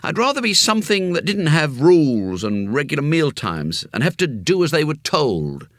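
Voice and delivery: put-on young boy complaining; boy Jimmy. A narrator's reading. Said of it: "Jimmy speaks".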